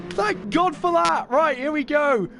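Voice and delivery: loud, distorted, right on the mic; mic too close. Real, not acted. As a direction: mouth right against the mic. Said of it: "Please put your mic away from your mouth".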